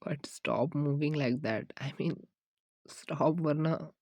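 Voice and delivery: very slow whispered plea; slow pleading whisper. Acted. Boyfriend begging dancing girlfriend to stop, slow whisper. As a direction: drag it out, begging her to stop.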